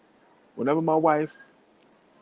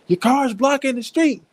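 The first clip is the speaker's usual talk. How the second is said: much higher, slow and prim; mock the uptight neighbor; imitating white woman; 12 semitones higher, 3 dB louder, slower than usual. White woman scolding about the car, high slow mock voice. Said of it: "the white girl turn around".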